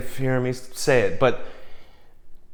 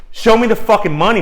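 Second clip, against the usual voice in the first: higher, louder shouted movie quote; Cuba Gooding Junior; 8 semitones higher, 6 dB louder than usual. Retold or imitated. Quoting the film for writers, shouted high and loud. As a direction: belt out the famous line. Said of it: "Like Cuba Gooding Junior said".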